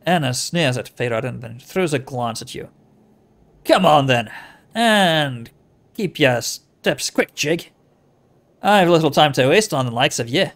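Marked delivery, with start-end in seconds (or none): 3.6-10.5 impatient put-on accent; Anna's made-up accent. Anna hurrying you along, impatient put-on accent. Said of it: "it's her accent".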